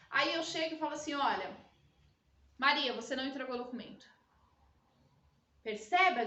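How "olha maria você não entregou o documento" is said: fast, direct, pointed reproach to Maria; blunt boss. Shown as a demonstration. Boss bluntly blames Maria for the missing document, direct. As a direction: call Maria out plainly. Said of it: "de uma maneira mais delicada".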